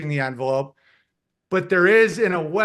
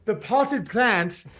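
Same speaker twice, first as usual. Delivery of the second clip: mock Hawking voice; 3 semitones higher, much slower than usual. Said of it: "And he's like".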